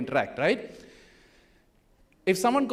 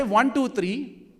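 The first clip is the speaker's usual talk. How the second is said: slow count; 4 semitones higher, 3 dB louder, much slower than usual. Shown as a demonstration. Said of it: "So I'll say".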